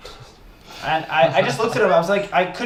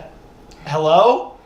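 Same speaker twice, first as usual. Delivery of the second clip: nervous hello; 5 dB louder, much slower than usual. Retold or imitated. Nervous call to an intruder.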